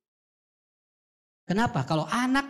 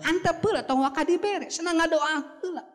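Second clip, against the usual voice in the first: higher imitation of a mother telling the child to wait; mock mother voice; 11 semitones higher than usual. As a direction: lightly play the mother holding off the gift. Mother voiced holding the child back.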